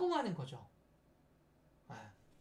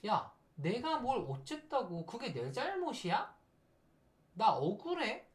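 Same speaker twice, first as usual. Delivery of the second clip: higher, drawn-out indignant protest; mildly hammed-up "it's not my fault"; mock child-ego protest; 5 semitones higher, slower than usual. Person defending themself in a conflict, childishly indignant. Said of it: "이건 아이자예요".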